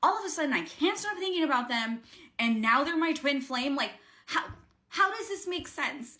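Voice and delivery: retold outburst of bewildered frustration; frustrated. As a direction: demand answers in high-pitched, baffled frustration. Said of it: "like, getting frustrated".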